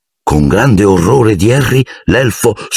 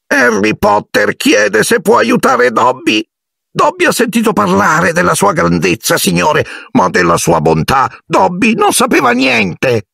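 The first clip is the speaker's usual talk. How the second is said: adoring house-elf. A narrator's reading. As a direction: marvel at his goodness. Dobby in adoring awe.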